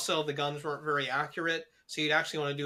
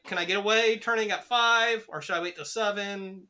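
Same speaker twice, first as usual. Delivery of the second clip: mock inner voice, higher and louder; 4 semitones higher, 3 dB louder than usual. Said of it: "you're like".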